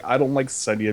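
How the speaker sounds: lightly voiced character, matter-of-fact objection; Grey Worm. Grey Worm objecting to talks with slavers, lightly imitated. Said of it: "And Grey Worm's like".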